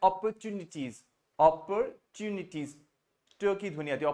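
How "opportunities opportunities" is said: American "opportunities" with an r and a crisp t; US style. Shown as a demonstration. Teacher demonstrates another style, American pronunciation. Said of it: "इसको एक और US style में बोलते हैं".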